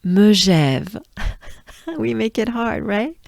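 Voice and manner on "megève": "Montée de l'altiport de Megève" slow, piece by piece; broken down slowly. Shown as a demonstration. Teacher leads learners through the whole name, slowly broken down. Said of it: "it's easy if we break it down".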